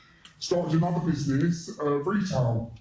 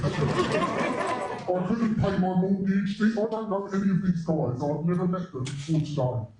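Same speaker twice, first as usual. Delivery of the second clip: crying; 4 semitones higher than usual. Real, not acted. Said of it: "Oh, don't cry".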